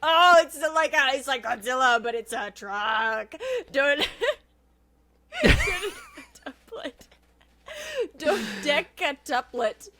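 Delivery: cracking up mid-read; giggling while trying to read; laughing through words. Real, not acted. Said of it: "You're doing great".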